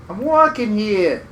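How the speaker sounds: slow, lightly voiced New York accent; a hint of a New York tough guy. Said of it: "I'm doing a New York accent".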